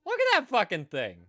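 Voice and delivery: high loud horrified yelling; loud disgust. Real, not acted. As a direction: shout in disgust at the screen. Horrified reaction to something on screen.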